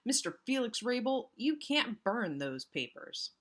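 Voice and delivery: loud, high, slow cry; Nancy catching him in the act, shouting. A narrator's reading. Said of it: "she cried".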